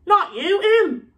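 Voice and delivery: high, loud correction; growled order. A narrator's reading. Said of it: "Moody growled".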